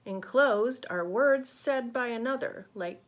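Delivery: put-on lively, expressive reading to children; rhythmic, emphatic storybook voice; picture-book read-aloud. A narrator's reading. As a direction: read it brightly to a class of kids.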